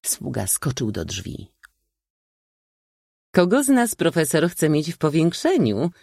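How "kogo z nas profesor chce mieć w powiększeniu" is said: high shrill calling voice up the table; eccentric old lady calling out. A narrator's reading. Eccentric old lady calling down the table, high mocking voice. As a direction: call out high, cheeky. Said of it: "zawołała z góry stołu kobieta".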